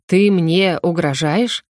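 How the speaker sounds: slow, lightly indignant question; a touch of outrage, slow. Acted. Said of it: "возмутился демон".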